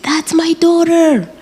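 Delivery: high, slow, loud cry of a mother; a mother screaming high and slow; retold scream. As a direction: call out desperately, stretching each word. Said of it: "she's screaming and she said".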